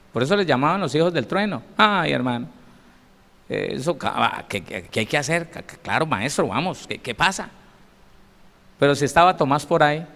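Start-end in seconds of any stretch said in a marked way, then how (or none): 1.8-7.5 timid stammer. Acted. Disciples answering the Lord, nervously stammering. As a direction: stumble over the words like a nervous follower.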